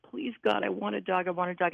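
put-on mildly begging, as a child praying; pleading. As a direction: plead lightly, repeating it insistently. Child's prayer for a dog, retold.

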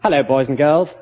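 put-on storyteller in a posh public school accent; poncy public school accent. Uncle Remus starting the story, poncy public school accent. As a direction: greet children in a prim public school accent. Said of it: "Poncy public school accent".

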